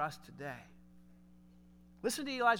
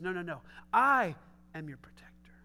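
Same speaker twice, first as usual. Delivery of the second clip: reassuring God; 3 semitones lower, 4 dB louder than usual. Retold or imitated. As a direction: hush a frightened child's fear. God's reassuring answer.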